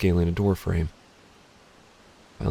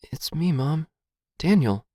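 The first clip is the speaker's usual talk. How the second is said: high whispery stranger; eerie, high, listless half-whisper; 7 semitones higher than usual. A narrator's reading. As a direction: answer in a listless, airy whisper. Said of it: "says the listless voice".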